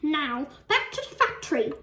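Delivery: high-pitched, eager outburst; excited cry. A narrator's reading. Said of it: "he cried".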